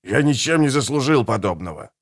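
a hint of a clumsy father; awkward father. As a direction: mumble it awkwardly. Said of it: "сказал Кантлинг неловко".

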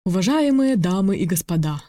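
grand emcee address; ringmaster. Acted. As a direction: announce it like a showman. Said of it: "голос ведущего".

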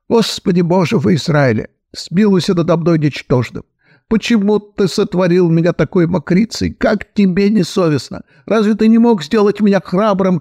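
a hint of a wailing penitent; lamenting prayer. Son reproaches God, lightly wailing.

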